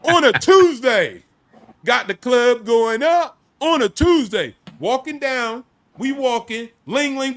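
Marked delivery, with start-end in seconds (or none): 0.0-4.5 loud, higher-pitched bragging; hyped boast. Retold or imitated. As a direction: punch out each boast loudly, drawing out the ends. Hyped boast while telling his story.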